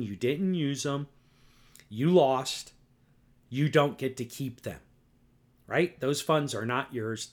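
furious podcaster berating a politician; angry rant. Real, not acted. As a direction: scold her hard, voice rising at lost. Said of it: "that's how angry I am".

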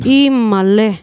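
laughing excited cry; delighted exclamation. Real, not acted. Excited cry about parents calling.

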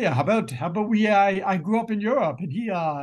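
lightly put-on Asian accent. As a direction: slip into a mild Asian accent. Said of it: "I went into, like, a bad re-, Asian accent too".

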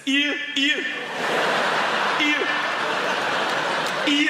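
loud, high mock Geordie vowels; Geordie accent. Geordie reading an eye test, loud mock Geordie accent. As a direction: read out each letter as a Geordie "ear". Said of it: "says the letter A and the letter E".

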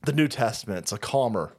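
lightly mock the gentle-God crowd; a hint of a prissy churchgoer; mock preachy believer. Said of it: "they're like".

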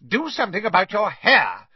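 aunt snapping at Harry as he reaches the hall; snapped. A narrator's reading. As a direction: bark the order at the boy. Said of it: "Aunt Petunia snapped".

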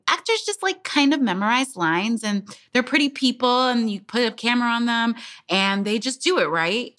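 high, airy mock of dismissive people. Mocking people who think acting is easy. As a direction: sneer lightly at how people see actors. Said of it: "people are just like".

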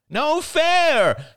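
the same complaint shouted harder. A narrator's reading. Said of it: "he repeated, louder".

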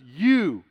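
You as one emphatic, drawn-out word; You stressed, standing alone. Retold or imitated. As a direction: land firmly on You and stop. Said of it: "It was an emphasis".

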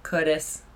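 Curtis with the R softened away, like "Cuh-dis"; old speech impediment. Shown as a demonstration. Co-host shows how they used to say the name Curtis, with a speech impediment. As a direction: say "Curtis" as if unable to form the R. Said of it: "Can you still do it?".

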